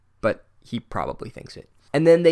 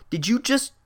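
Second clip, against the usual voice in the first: incredulous; 9 semitones higher than usual. Real, not acted. Incredulous rant at character.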